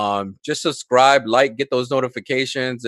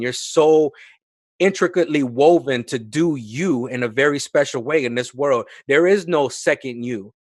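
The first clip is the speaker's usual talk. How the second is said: sixty-second sermon. Acted. Guest preaching to the hosts against the clock, building impassioned sermon. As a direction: preach it like you're winning souls in one minute. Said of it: "by preaching to us".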